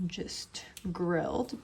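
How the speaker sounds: slow, soft whisper. Real, not acted. Explaining the grilling plan.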